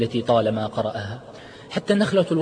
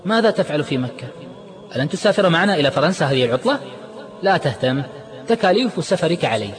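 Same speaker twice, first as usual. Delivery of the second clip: puzzled; 5 semitones higher than usual. Acted. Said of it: "فسأله عماد مستغربا".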